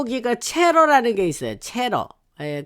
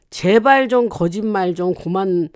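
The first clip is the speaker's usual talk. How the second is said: mildly heated retelling, louder on "you are lying"; retold angry rebuke; 4 dB louder than usual. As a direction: imitate an exasperated denial with a touch of anger. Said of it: "막 그러면서 막 화를 내고". (화내며 쏘아붙이는 말을 가볍게 흉내)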